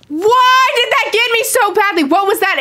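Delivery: high, rattled voice after the fright; shaken after a scare. Real, not acted. Gamer reacts to being scared, high and rattled. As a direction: still jumpy, rushing the question.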